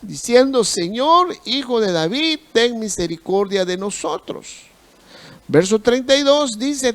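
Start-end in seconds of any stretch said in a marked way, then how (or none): 0.6-4.6 crying out. Acted. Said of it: "gritaban más aún".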